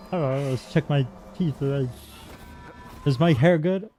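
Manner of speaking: high, preening anime voice; overacted anime dub. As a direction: ham it up like a vain anime hero. Primping at mirror reflection.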